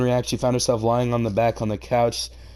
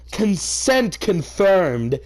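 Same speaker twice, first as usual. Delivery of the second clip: deadpan; 8 semitones higher, 4 dB louder, much slower than usual. Real, not acted. Deadpan aside.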